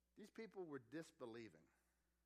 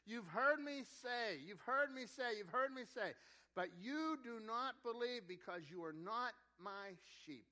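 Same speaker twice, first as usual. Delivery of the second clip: raised, high preaching voice; insistent rebuke; 5 semitones higher, 5 dB louder than usual. Acted. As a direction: hammer the repeated phrase with mounting exasperation. Acting Jesus rebuking the disbelieving crowd.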